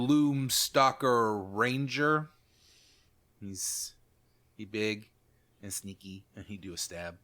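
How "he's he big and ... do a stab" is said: dumb bugbear talk. Acted. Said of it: "I'm playing a bugbear".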